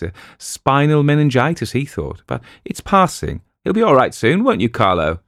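light voicing of an anxious father; anxious husband. A narrator's reading. Ferguson voiced in story.

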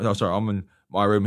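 normal talking voice

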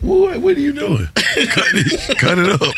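just get on with the cut; mock exasperation. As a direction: barber talks too much, mock exasperation. Impatient with chatty barber.

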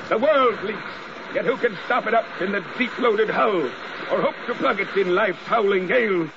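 fervent. Acted. Ahab's fervent outburst.

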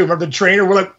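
ordinary talk, nothing marked

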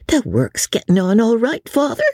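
a daughter brushing off her father; Sally answering her father back, pitched high; lightly voiced daughter. A narrator's reading.

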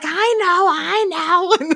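lightly voiced old lady, high; sheepish lady admits it. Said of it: "She's like".

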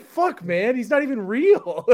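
half laughing, half heartbroken; laughing disbelief. Retold or imitated. Retelling his reaction to a sad drawing, laughing. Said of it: "I was like".

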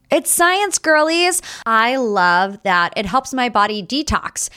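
upbeat sponsor read; chirpy podcast ad delivery. Acted. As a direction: pitch the supplement brightly to the listeners. Reads sponsor ad.

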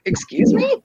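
high-pitched, incredulous "excuse me"; indignant disbelief. Retold or imitated. Patient to nurse who suggested her husband abuses her, indignant disbelief. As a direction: retell it as an affronted squeak, voice jumping up. Taken aback by nurse's accusation.

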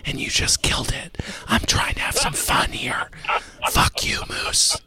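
mock-annoyed whisper. Host whispering back at a buzzkill caller. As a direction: tease him, still hushed.

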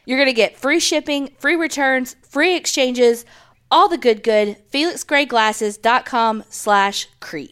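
excited ad read. Acted. Host hypes the sponsor perks to listeners, excited. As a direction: pump up the perks, then repeat "Felix Gray Glasses dot com slash creep".

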